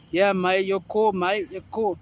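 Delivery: lightly put-on British accent, slightly lifted; imitated British accent. British former sailor reassures his mate, imitated British accent. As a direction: mimic a British mate's accent. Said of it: "he says it in his".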